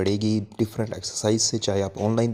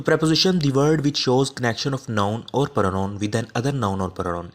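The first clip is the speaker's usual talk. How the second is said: slow dictation; much slower than usual. Shown as a demonstration. Teacher dictates the definition slowly.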